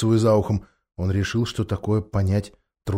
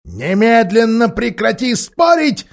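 irritated ape; 11 semitones higher, 7 dB louder, slower than usual. Acted. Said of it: "сказал обезьян".

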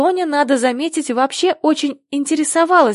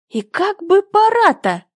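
higher, grumbling hare voice; 7 semitones higher than usual. A narrator's reading. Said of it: "заворчал Заяц". (ворчливый заяц, голос заметно выше)

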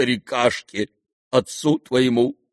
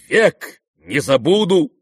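loud slow dying cry; a fallen man's last shout; cried out; 6 semitones higher, 5 dB louder, slower than usual. Retold or imitated. The dying friend's last cry, retold loud and slow. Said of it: "крикнул".

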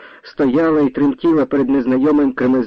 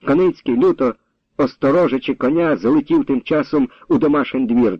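usual speaking voice

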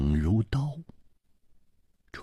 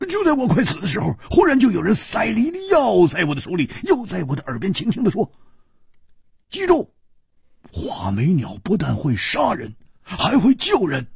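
高而亮的粗豪汉子嗓音，感慨不已; 又佩服又唏嘘地嘟囔; 胡铁花的声音; 10 semitones higher, faster than usual. Acted. 胡铁花讲述. (高亢的胡铁花感叹)

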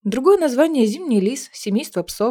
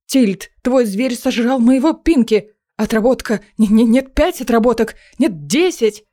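angry magister; 3 dB louder than usual. Acted. Magister furious at eaten pet.

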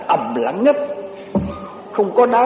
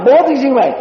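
mock curse; 6 semitones higher than usual. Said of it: "Nó".

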